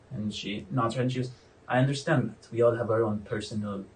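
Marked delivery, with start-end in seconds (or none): 1.7-3.9 deliberate warden, drawing out each phrase with pauses; needling prison warden. Acted. Warden exposing her former prisoner before his companions, knowing and needling. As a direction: toy with them as a knowing warden.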